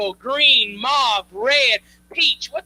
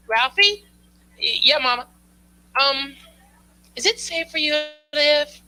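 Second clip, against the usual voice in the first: worried mom. Retold or imitated. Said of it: "She goes".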